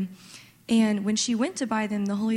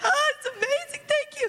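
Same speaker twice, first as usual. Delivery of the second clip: put-on very high crying, voice breaking down. Recounting breaking down in tears in the back by the chairs, retelling crying. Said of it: "And then I start crying".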